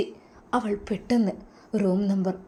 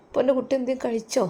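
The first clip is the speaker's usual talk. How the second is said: fond father; 5 semitones higher, faster than usual. Acted. Voicing the sick father.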